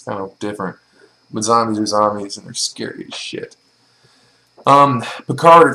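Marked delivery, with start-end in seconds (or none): 2.4-3.6 whispered aside. Real, not acted. Spooky aside on zombies.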